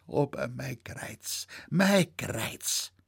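breathy, sighing moan; old man mourning his bad back; whispered lament. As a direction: let the dream collapse into a whisper.

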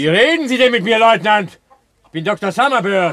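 a furious man insisting on his name; indignant shout. Acted. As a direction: shout him down, offended. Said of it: "Schreien Sie mich gefälligst nicht an".

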